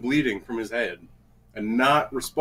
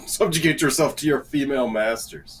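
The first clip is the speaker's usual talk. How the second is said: laughing; 2 semitones higher than usual. Pretend. Mock decree, laughing.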